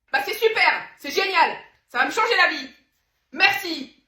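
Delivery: loud, high, thrilled gush; over-the-top delight. Acted. Woman thrilled by her friend's oil, loud excited gush. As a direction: gush like it changed your life. Overjoyed thanks.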